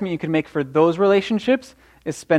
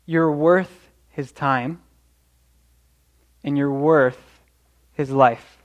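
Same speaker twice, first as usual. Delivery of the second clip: tender, slow affirmation; 2 semitones lower, slower than usual. Acted.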